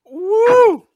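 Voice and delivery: gasping through a burning mouth; hot-sauce burn, talking through it; mouth burning from spicy food. Real, not acted. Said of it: "my mouth is burning".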